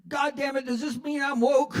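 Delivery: put-on a grumpy old man realizing something awful; dismayed outburst. Old patient realizing he's woke, high dismayed outburst.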